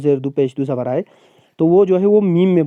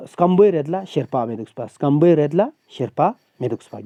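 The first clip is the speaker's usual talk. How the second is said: Pargi saying. Shown as a demonstration. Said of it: "Pargi زبان میں".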